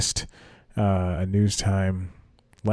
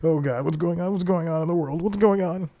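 higher, mock-despairing cry; exasperated high wail; 9 semitones higher than usual. Shown as a demonstration. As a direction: throw your hands up in a high voice. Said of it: "This is me, uh, vamping".

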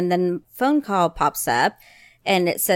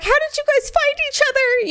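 mock amazement. Mom asks kids in car.

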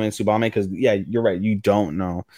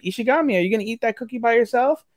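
put-on higher girlish voice for Tsubame; voicing the girl; 11 semitones higher than usual. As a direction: lift the voice up high to play Tsubame.

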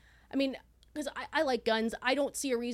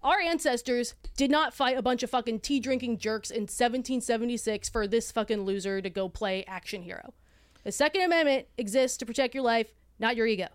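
passionate rant; 4 dB louder than usual. Real, not acted.

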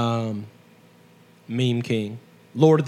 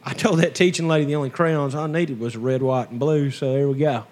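hillbilly talk. Pretend. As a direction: say it like a proud country redneck. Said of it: "That's my hillbilly talk".

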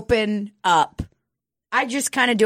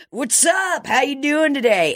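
high, bright mock salesman hello; chirpy store clerk voice; salesman greeting; 8 semitones higher than usual. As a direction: imitate the eager clerks greeting you. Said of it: "And they're like".

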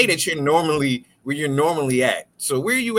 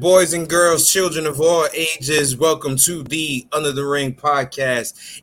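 ringmaster; 3 semitones lower than usual. Acted. Podcast intro in announcer voice.

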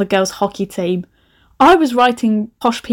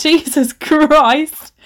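exasperated; 6 semitones higher, 4 dB louder, much slower than usual. Real, not acted. Exasperated at old self.

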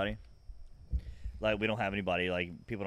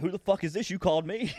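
high-pitched, irritated demand down the phone; indignant, worked-up retort; angry; 10 semitones higher, 6 dB louder than usual. Retold or imitated. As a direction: snap at the caller, pitched up. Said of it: "I'm angry".

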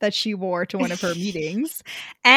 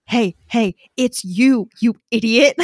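exasperated shout; 7 dB louder than usual. Pretend. Yelling at character in book.

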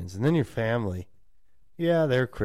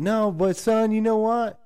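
scolding parent; 7 semitones higher, slower than usual. Retold or imitated. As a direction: lecture him slowly and sternly, voice raised. Family scolding the son.

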